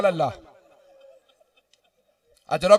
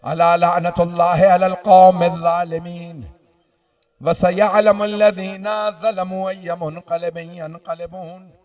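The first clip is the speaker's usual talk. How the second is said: drawn-out closing recitation, easing down; solemn level chant; Arabic recitation. Real, not acted. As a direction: intone the verse after the climax.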